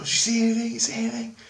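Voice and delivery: high, anxious voice of the friend; friend's urgent whisper. Retold or imitated. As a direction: ask it tense and hushed, peering out.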